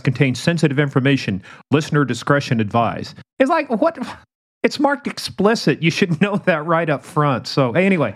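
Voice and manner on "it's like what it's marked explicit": a high incredulous what; mock surprise. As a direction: pitch jumps way up in disbelief. Mock reaction to warnings.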